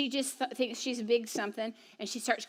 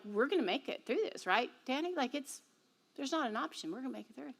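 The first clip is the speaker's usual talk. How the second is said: quiet encouragement; 5 dB quieter than usual. Retold or imitated. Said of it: "they're like".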